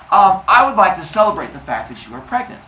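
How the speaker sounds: acting out a too-keen suitor; Zeus. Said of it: "Zeus goes up to Mincinin".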